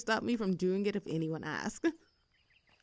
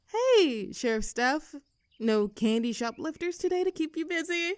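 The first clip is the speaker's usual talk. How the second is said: mocking; 5 semitones higher than usual. Mock greeting to sheriff.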